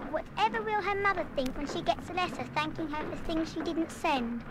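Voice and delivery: hushed, anxious musing; quiet worry. Acted. Girl frets to herself about the mother's letter, hushed and worried. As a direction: murmur it to herself, dismayed. Worried thoughts after realising mistake.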